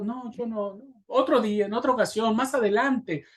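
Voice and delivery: high, whiny put-off; evasive excuse. Retold or imitated. Believers putting off the pastor, in a high evasive whine. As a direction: dodge the request in a high whine.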